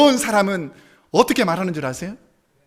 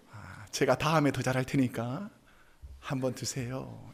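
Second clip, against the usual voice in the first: softer, slow and lower humble apology; wife soothes complaining husband with soft apology; gentle apology; 6 semitones lower, 11 dB quieter than usual. Acted. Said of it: "이렇게 말해주면".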